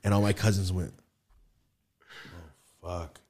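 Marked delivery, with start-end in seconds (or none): 2.8-3.2 very soft, low mutter; hushed dismay. Retold or imitated. Cousins reacting to the outburst, hushed and stunned. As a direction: imitate stunned onlookers under their breath.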